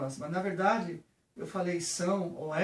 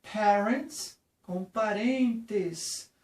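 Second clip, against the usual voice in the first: slow contrast; 3 dB louder, much slower than usual. Shown as a demonstration. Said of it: "não confundam".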